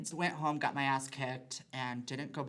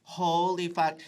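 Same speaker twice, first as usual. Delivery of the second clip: shocked swear; 4 semitones higher, 10 dB louder, much slower than usual. Retold or imitated. Caught shoplifting, retold shock.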